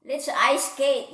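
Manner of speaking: Daisy the dog yelping eagerly to Oscar; yelped. Acted. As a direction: chirp it out eagerly. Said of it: "yelped Daisy".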